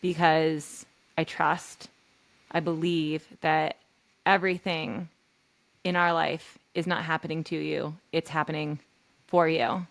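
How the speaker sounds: reassuring. Pretend. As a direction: hold her pain gently and promise hope. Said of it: "And I would say".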